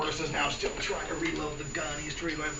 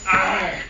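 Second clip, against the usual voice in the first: staggering groan; 3 semitones higher, 7 dB louder than usual. Retold or imitated. Acting staggering Rasputin.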